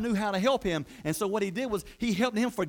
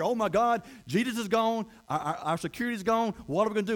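mild panic, raised voice; acted fear; 4 semitones higher than usual. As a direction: play the alarmed followers, stammering slightly. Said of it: "they were slaves of fear".

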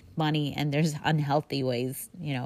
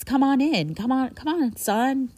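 high, eager, loud call to come in; warm welcoming father; 8 semitones higher, 3 dB louder than usual. Retold or imitated. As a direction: call him in gladly, pitched high. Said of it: "He says".

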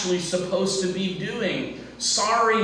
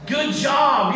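God praising; 5 semitones higher, 4 dB louder than usual. Acted. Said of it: "where he says".

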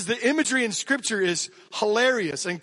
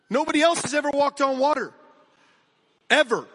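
emphatic; 5 semitones higher, 4 dB louder, faster than usual. Real, not acted. Pastor repeats it, louder, higher.

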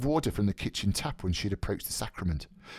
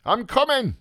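high, raised answering shout; calling back; 5 dB louder than usual. Acted. Mulligan answering the voice within the tower, calling back. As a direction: sing it out to someone below.

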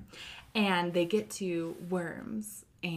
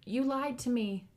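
put-on high, slow, accusing child's shout; a betrayed kid yelling at mom; mock child shout; 6 semitones higher, 3 dB louder, slower than usual. Son shouting at his mom in front of story time, high and slow. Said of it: "Story time will hear him shouting".

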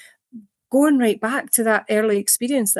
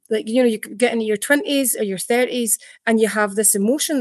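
whispered. Real, not acted. Unvoiced line mid talk.

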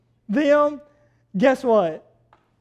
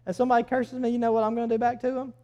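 mock self-talk; 8 dB quieter, much faster than usual. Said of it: "I'll say".

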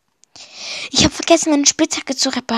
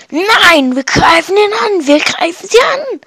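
defiant outburst; 5 semitones higher than usual. Acted. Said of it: "Minus haut mit voller Wucht die Hände".

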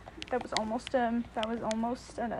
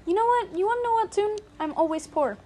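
loud exasperated; 9 semitones higher, 5 dB louder than usual. Real, not acted. Exasperated outburst at co-player.

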